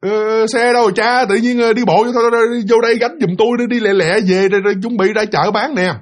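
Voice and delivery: impatient urging. Acted. Wife telling husband to help carry fruit, impatient urging. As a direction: hustle him along impatiently.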